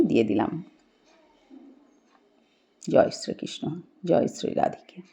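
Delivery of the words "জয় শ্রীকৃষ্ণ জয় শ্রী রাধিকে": hushed prayer under the breath; devout whisper. Real, not acted. Host at the altar whispering praise to Krishna. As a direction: breathe the praise softly to the deity. Whispered devotion after offering.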